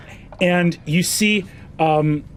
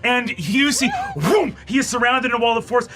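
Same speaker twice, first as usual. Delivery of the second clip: a spy panicking mid-report; frantic report; 5 semitones higher than usual. Acted. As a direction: blurt the warning in panic.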